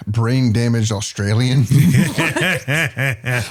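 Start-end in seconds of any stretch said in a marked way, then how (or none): 0.1-1.6 bad Australian accent. Shown as a demonstration. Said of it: "end up sounding like".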